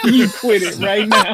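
slow mock scolding through a laugh; lightly voiced stern mom, drawn out; imitated Judge Judy-style mom. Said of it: "she would teeter-totter between the two".

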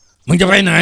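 loud, high, slow cry of wounded fury; hurt, trembling anger. A narrator's reading. Father yells at his daughter as she leaves with her husband, hurt and furious. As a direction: shout it as a father betrayed. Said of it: "เสียงแกสั่นสะท้านไปด้วยความเจ็บใจ".

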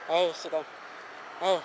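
low muttered swear; cursing under breath. Real, not acted. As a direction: grumble the curse to yourself. Cursing at failed cast.

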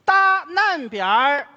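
drawn-out, careful opening words; very slow recital. Shown as a demonstration. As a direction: take each word slowly and deliberately. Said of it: "注意听啊".

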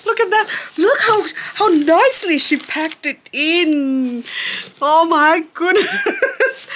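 very high squeal on first sight; thrilled amazement. Real, not acted. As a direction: squeal loudly with delight, then ease slightly. Opens the box, sees the plants.

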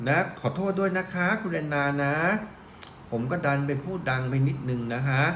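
quiet apology. Real, not acted. Host apologizing to viewer Anna for shouting, quiet. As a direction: say sorry quietly, backing off. Apologizing after being too loud.

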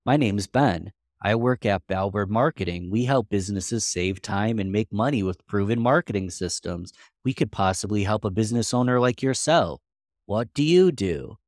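bored, flat sales pitch, no energy; monotone voice. Shown as a demonstration. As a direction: recite it like a dull robot. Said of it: "I'm gonna say a monotone voice on purpose".

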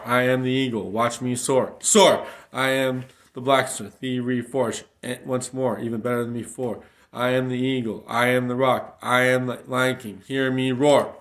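loud, roaring declamation with big falling shouts; preaching at full force, shouting; shouted proclamation. Acted. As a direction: roar each line out like a battle cry.

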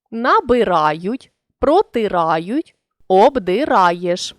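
"Набирають", "протирають", "обдираєш" drawn out, each root syllable clear; slow syllable demo. Shown as a demonstration. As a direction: stretch out the roots бир, тир, дир slowly. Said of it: "У дієслівних коренях бир, тир, дир". (повільно, по складах)

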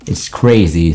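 ordinary talk

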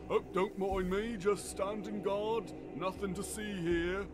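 high, breezy innocent act; casual guard act. Acted. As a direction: play it casual, nothing to see. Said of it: "he's like".

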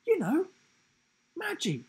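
a grinning joker giraffe, punchline loud; goofy giraffe voice. A narrator's reading. Giraffe answers.

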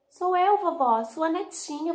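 put-on high, loud little-girl voice; bright high granddaughter calling through the door. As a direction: sing it out like a small happy girl. Real granddaughter answers.

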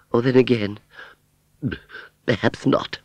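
high, hesitant second thought; queasy fairground aunt. Acted. Aunt Sally turning green, declining, queasy. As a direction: back out with a pause midway.

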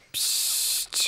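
unvoiced shush. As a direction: hush him quietly. Shushing brother about secret.

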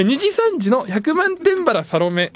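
slow, drawn-out title call; hammed-up announcer reading; hyped title call. Shown as a demonstration. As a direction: belt the name like an announcer. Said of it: "みたいに言ってもらってます".

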